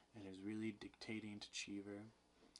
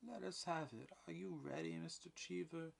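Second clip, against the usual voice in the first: brisk eagerness; 8 semitones higher than usual. A narrator's reading. Official eager to record confession.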